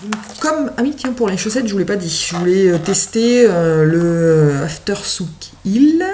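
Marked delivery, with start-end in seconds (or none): 4.7-6.0 French speaker's self-mocking English accent on "After Souk Hill"; a deliberately clumsy English accent, self-mocking. Shown as a demonstration. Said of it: "avec mon accent anglais très, très, euh, performant".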